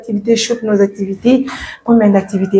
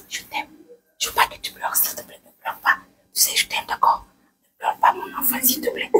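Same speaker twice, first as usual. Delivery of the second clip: soothing whisper; 11 dB quieter than usual. Real, not acted. Caregiver calming a crying baby, whispering. Begging the baby not to cry.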